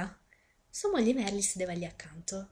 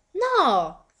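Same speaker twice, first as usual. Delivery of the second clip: loud, high burst of denial; shouted no; sharp no; 9 semitones higher, 11 dB louder than usual. Acted. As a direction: cut the idea off hard. Sister did not buy it.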